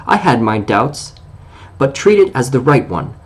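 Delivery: a hint of wounded pride in his voice; on his dignity. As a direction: answer proudly, offended but polite. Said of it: "being on his dignity".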